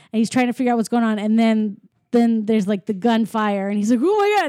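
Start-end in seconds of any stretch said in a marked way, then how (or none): 4.0-4.5 high-pitched imitation of a frightened burglar; mock scared yelp. Retelling the burglar fleeing gunfire, mock scared yelp. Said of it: "he runs and he's scared".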